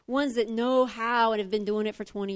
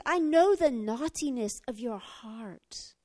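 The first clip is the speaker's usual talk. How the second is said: accusing brother; 2 semitones lower, slower than usual. Retold or imitated. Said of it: "He says".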